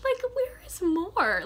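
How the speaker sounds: high, loud where-is-she cry; loud disbelieving question; exasperated outcry. Real, not acted. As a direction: demand to know where she went. Reader exclaims about missing character.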